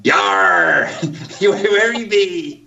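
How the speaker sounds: hearty pirate yell with rolled-out arrs; Captain Ripstone. Pretend. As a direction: play a jolly pirate captain. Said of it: "Captain Ripstone".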